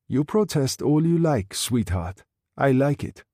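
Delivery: lightly voiced sneering thug; leering Greiser. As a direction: taunt her, enjoying it. Greiser taunts Sarah.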